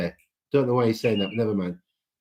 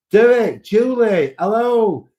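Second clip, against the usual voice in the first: high, loud sing-song greeting to viewers; sing-song hello; 11 semitones higher, 7 dB louder, much slower than usual. Real, not acted. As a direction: call out a bright hello to friends. Greeting viewers in live chat.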